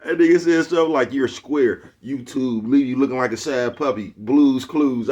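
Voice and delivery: mock the youngster's diss, cracking up; laughing retelling. Real, not acted. Retelling youngster's roast while laughing.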